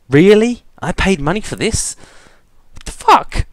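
very high squealed disbelief; incredulous. Real, not acted. Disbelief at game ending.

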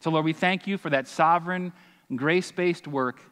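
earnest, steady prayer voice; heartfelt prayer before the sermon; pastoral prayer. Acted. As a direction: pray over the church sincerely. Leads the closing prayer.

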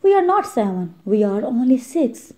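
high-pitched start, dismayed; startled. Acted. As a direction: sound genuinely thrown. Startled realization of loss.

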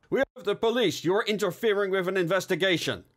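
high, urgent officer's warning; police challenge. A narrator's reading. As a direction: call it out as a commanding officer. Officer confronts armed attacker.

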